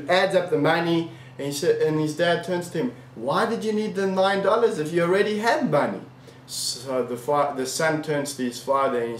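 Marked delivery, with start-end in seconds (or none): 3.1-6.0 higher-pitched, incredulous questioning; indignant question. Acted. Father confronts son with hidden money, indignant. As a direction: question him with mock indignation, voice raised high.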